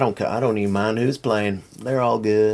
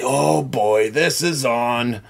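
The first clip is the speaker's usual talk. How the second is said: mock excitement; 4 semitones higher than usual. Retelling thrill at Gladiator scene.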